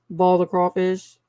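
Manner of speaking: Cajun vowels, boil flattened to ball; Cajun accent. Shown as a demonstration. Streamer showing her own crawfish phrase, Cajun accent. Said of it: "Only in certain words or phrases I might say".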